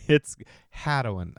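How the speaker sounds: drawn-out, badly faked Pakistani accent; clumsy Pakistani accent imitation; Kumail Nanjiani. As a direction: have another failed go at Pakistani "heroin". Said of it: "I can't do it".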